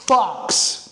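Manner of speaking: whispered, voiceless punch word; emphatic whisper. Real, not acted. Coach contrasts his method with others, emphatic whisper. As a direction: land the word in a forceful whisper.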